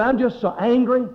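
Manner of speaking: retold anger. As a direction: imitate an angry man insisting. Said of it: "he just blew up".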